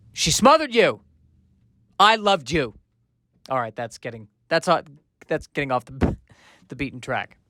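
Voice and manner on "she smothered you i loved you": pleading rom-com heroine. Acted. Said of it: "Meg Ryan-esque character".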